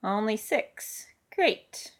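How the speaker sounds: slow, mildly dry mutter; understated, drawn-out grumble. Acted. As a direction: mutter it under a slight strain. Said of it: "Matthew muttered".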